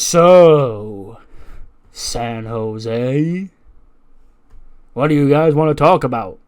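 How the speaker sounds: big drawn-out greeting to an arena crowd; Cody Rhodes. Acted. Wrestler greets San Jose from the ring, drawn-out showman call. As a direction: open loud and long, then let the question ring. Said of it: "Out comes Cody Rhodes".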